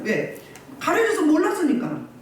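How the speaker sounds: usual speaking voice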